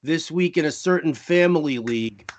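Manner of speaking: lightly put-on Long Island accent. Reading a question to Jen in mock Long Island accent. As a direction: read it like a Long Island caller. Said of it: "let me do the Long Island accent".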